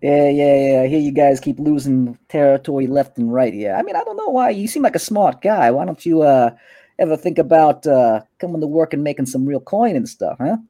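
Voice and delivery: a hint of a swaggering street boss; smug gang boss. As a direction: Kalen sizing up a rival in his turf. Kalen offers Tower work.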